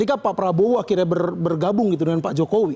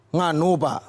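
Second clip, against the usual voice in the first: mock nervous; 4 semitones lower, much slower than usual. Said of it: "pasti deg-degan banget".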